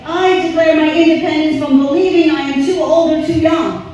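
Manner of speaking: loud, high, fervent vow; meant declaration. Shown as a demonstration. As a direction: say it like you truly mean it. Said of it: "you have to mean it".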